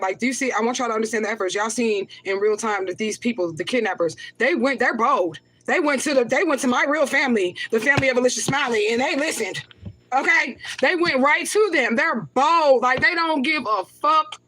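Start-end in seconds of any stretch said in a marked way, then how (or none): 4.4-14.4 righteous anger. Real, not acted. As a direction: let the outrage climb as you insist they're bold. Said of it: "I am kinda angry, but it's righteous anger".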